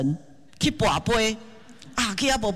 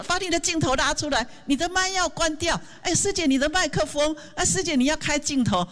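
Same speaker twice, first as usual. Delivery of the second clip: higher, eager voice calling out to fellow volunteers; mock online host; 8 semitones higher than usual. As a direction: play the busy meeting host telling everyone to fix their mics. Acting out online meeting instructions.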